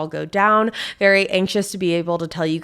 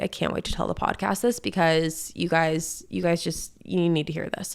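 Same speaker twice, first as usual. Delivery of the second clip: quietly to herself; soft, muttered musing, barely above a breath; hushed inner thought; 6 dB quieter than usual. Retold or imitated. Podcast host recalling her thought on the lost walk, hushed.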